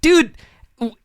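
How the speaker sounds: high, exasperated brush-off; high, done with this conversation. Retold or imitated. Retold telling guy to leave.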